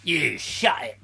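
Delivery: put-on British tough-guy accent. Pete answering back, in a British accent. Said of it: "that's like a British accent".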